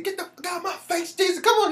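high, loud hammed-up angry old man; John Witherspoon voice. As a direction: yell it like a cranky old comedian. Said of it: "he said".

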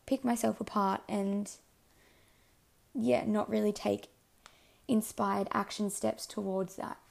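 hoarse, fading voice; losing voice. Real, not acted. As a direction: talk with a tiring, hoarse throat. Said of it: "I'm literally losing my voice".

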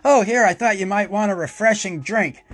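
fake sweet brother. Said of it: "like some really nice young brother".

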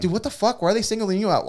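high, incredulous mock protest; retold bafflement. Retold neighbours' baffled reaction.

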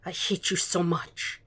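slow, hushed near-whisper; quiet and slow. A narrator's reading. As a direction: draw it out softly, into someone's chest. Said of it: "Will whispered against his chest".

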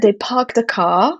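"park" and "car" with silent R, drawn out slowly; slow British "park the car", dropping the R; British non-rhotic R. Shown as a demonstration. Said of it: "Because in Britain".

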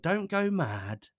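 drawn-out, put-on appeasing voice; placating missus. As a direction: imitate a nervous partner softening the blow. Voicing missus pleading.

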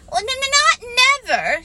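high, stammering Piglet voice; anxious little creature, pitched far up; alarmed stammer. Acted. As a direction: squeak it out in stuttering alarm. Piglet alarmed at losing Tigger.

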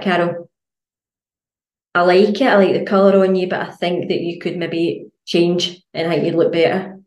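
nicer version of the same note; kind honesty. Retold or imitated. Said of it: "You'd be like".

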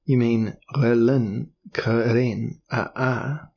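"Relin Keren Aa" said slowly and smoothly, each syllable rounded in an unfamiliar timbre; fluent high tongue. A narrator's reading. Elric naming the ancient city to the Duke, slow and fluent. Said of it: "You pronounce it more fluently than could I".

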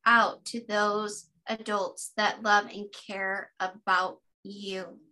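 put-on slow, tender reassurance to a little girl; tender words to her. Grown woman reassuring her childhood self, slow and tender. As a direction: say it slowly, as if holding her close. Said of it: "And then I would tell her".

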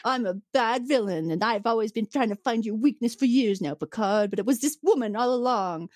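lightly hammed-up villain gloating; mock bad villain. Villain crowing over Picard's weakness, mock villainous. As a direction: play a cartoonish villain's speech, lightly. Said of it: "starts to turn into, like, the".

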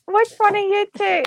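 imitating the mum. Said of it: "the mum came in and she was like".

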